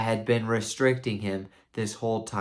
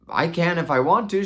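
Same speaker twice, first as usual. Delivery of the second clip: higher, louder, protesting knight; defensive retort; 7 semitones higher, 5 dB louder than usual. Retold or imitated. Knight answers his wife's challenge, defensive retort. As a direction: push back in a raised voice.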